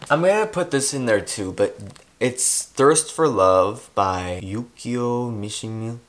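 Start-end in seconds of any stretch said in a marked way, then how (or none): 2.2-6.0 slow, careful Japanese accent on the title. Shown as a demonstration. Vlogger showing off a Japanese accent on a book title. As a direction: say the Japanese name like a native. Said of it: "That was a really good accent".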